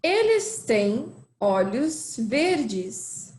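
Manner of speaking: slow, clear model line; slow down so learners can repeat; slow model sentence. Shown as a demonstration. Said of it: "repeat again".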